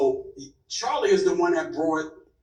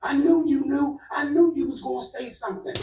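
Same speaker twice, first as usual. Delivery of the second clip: higher, retold frantic outburst; mock frantic accusation; 8 semitones higher than usual. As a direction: throw the blame at him in a put-on voice. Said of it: "he spazzes out again".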